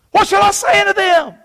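high-pitched mock plea; acted questioning. Moses asking God what to tell Israel, high pleading question.

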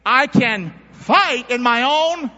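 mock self-reliance. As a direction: puff up like you need no one. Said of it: "don't say, say it with me".

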